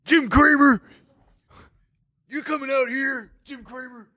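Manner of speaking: mock wrestling trash talk; puffed-up smack talk with a mock shout; false bravado. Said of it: "talking some smack to my boy".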